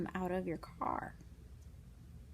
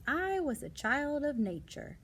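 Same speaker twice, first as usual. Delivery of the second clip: lightly voiced Lady Bird; 5 semitones higher, 3 dB louder than usual. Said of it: "she said later".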